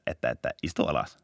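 a shy rookie's half-hearted order; timid squeak. Retold or imitated. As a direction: squeak it out with no authority. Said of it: "mä yritin siinä piipittää".

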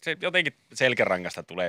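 ordinary talk, nothing marked

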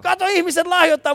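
high, loud delighted "Kato, ihmiset lahjoittaa"; delighted exclaim. Real, not acted. Host thrilled to the camera as a stranger donates, high excited exclaim. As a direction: exclaim with real glee.

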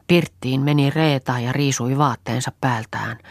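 ordinary delivery

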